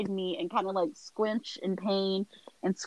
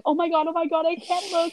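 high, fluttery mock-panicked mom; panicking mom; 11 semitones higher than usual. Mom panics as IV goes in, imitated high and frantic. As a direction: imitate mom losing it, pitched way up.

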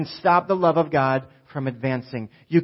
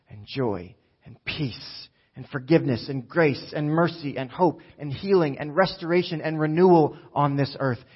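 prayer. Acted. Leads a prayer over the church.

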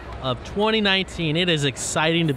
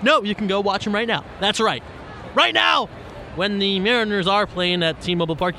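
ad read. Acted. Host reads a Mariners ticket ad, upbeat. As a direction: sell the tickets like a radio spot. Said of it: "I'm doing a commercial here".

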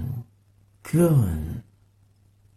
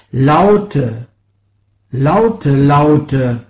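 loud; 7 dB louder, much slower than usual. Acted. Sound poem, the word "laute.

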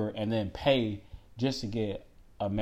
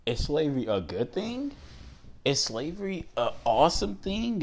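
mock questioner; 3 semitones higher than usual. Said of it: "everybody says".

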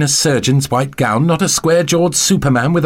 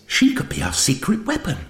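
high-pitched, keen suggestion; quick, eager interjection; 8 semitones higher, 5 dB quieter than usual. A narrator's reading. Zoe pleads Betty's case to the Doctor, eagerly. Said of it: "said Zoe quickly".

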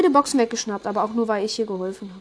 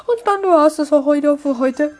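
lively sign-off; 5 semitones higher, 7 dB louder than usual. Real, not acted. Signing off.

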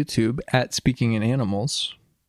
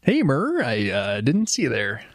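put-on Midwestern accent. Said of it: "This is my Midwestern accent".

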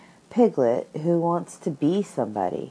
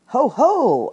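loud, much higher gloating cry; heffalump gloating; 10 semitones higher, 8 dB louder than usual. Acted. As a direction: crow it out like a triumphant beast. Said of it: "suggested Piglet anxiously".

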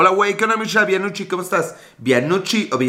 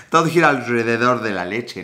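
"Todo gira" said correctly, with a laugh; laughing correction; 5 semitones lower than usual. Real, not acted. Laughing at his own slip before repeating the line to viewers. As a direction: laugh it off and say it right. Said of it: "no puedes decir la R".

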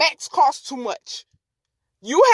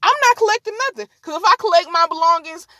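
higher, fast indignant retort; mock defiant refusal; 3 semitones higher, faster than usual. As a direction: act out a heated refusal, quickly. Retold woman refuses flight attendant.

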